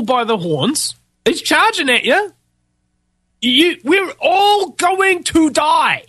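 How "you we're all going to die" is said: dire warning. Acted. Doomsday warning to listeners.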